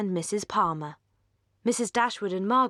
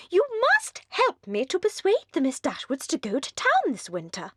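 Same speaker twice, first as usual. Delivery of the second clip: put-on giddy young lady; 8 semitones higher than usual. Mrs Palmer gushes at the Dashwood sisters, very high and giddy. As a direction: gush like a merry, empty-headed hostess.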